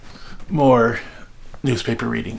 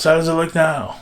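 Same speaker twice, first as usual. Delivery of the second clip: mock call, pitched up; retold yell; 6 semitones higher than usual. Mother yells father's question into the house, mild mock yell. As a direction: imitate mother calling indoors. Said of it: "My mother would yell in the house".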